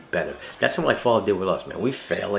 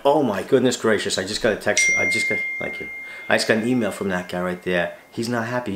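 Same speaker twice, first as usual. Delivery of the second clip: mock fretting. Vlogger mocking how critics imagine him reacting, mock fretful. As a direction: mockingly play the panicked version of himself. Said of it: "You, you think that I went".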